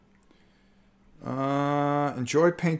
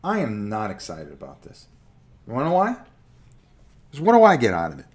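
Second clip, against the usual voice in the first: loud, escalating wrestling promo rant; 11 dB louder, faster than usual. Pretend. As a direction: build into a ring-announcer call-out. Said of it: "I'm gonna cut a promo on you".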